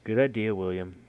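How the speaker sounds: loud, lifted call from afar; calling across room. A narrator's reading. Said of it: "calls from the other side of the room".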